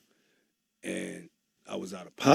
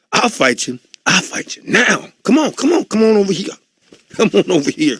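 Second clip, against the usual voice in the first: loud, much higher fight challenge; yelling come on at someone; challenging yell; 12 semitones higher, 9 dB louder than usual. Retold or imitated. One rapper challenging another to fight, loud high yelling.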